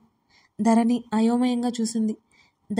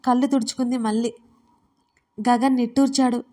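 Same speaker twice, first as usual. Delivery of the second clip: ordinary delivery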